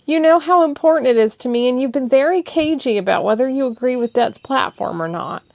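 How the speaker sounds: high, loud, urgent pleading; impassioned, near tears; passionate plea. Acted. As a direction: pour out her frustration.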